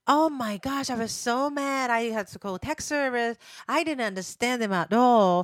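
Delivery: mildly exasperated complaint; frustrated friend. Retold or imitated. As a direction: vent like a fed-up friend. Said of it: "she still gets frustrated".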